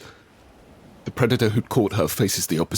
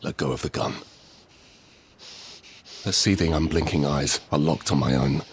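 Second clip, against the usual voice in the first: much softer, low and dangerous; hushed menacing threat; 3 semitones lower, 6 dB quieter than usual. Acted. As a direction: threaten her through your teeth. Ida fights Lena for the rifle.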